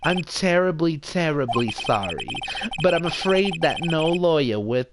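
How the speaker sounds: lightly voiced Jewish mother as lawyer; a hint of Jewish mother, self-important. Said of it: "I'll definitely do that voice a little bit".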